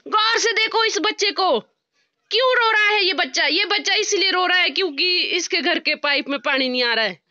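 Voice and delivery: mock announcer. Joking to the camera about the baby's tears, mock solemn appeal. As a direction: present the crying child like a charity ad.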